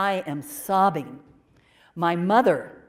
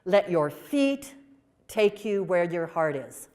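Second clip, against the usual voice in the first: gentle motherly advice. Retold or imitated. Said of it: "She said".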